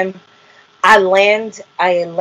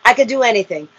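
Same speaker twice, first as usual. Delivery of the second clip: getting angry; 2 semitones higher than usual. Retold or imitated. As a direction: argue back, mildly heated and pitched up. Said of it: "I started getting angry at him".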